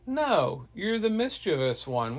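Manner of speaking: high, loud acted "no"; teasing rejection. Girl rejects Loki after feigned offer.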